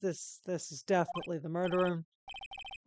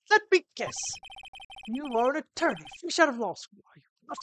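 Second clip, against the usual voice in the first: higher, theatrical condescension; pompous CEO, scornful; 7 semitones higher, 5 dB louder, faster than usual. Acted. CEO sizing up a rookie attorney, haughty scorn. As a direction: sneer grandly at the newcomer.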